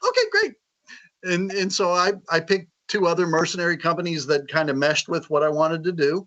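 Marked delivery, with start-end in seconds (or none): 0.1-0.5 laughing okay. Retold or imitated. Retells own reply, laughing.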